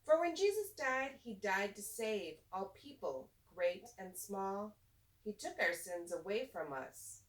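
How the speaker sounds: put-on lilting, expressive read-aloud for kids; reading to children. A narrator's reading. Teacher reading a rhyming picture book to children, lilting and expressive. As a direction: read the rhymes like story time in class.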